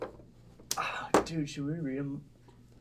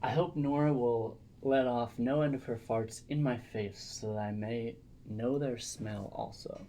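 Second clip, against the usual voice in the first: reading aloud; 2 semitones lower, 5 dB quieter than usual. Acted. Reads a letter aloud.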